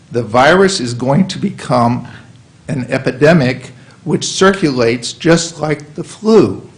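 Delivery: impassioned, forceful reading of a quote; emotional. Real, not acted. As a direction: read it out with urgent emphasis. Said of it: "I'm very emotional about this".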